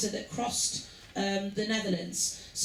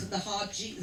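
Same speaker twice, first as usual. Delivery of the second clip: laughing softly; 3 semitones lower, 4 dB quieter than usual. Real, not acted. Laughs mid-sentence about accent.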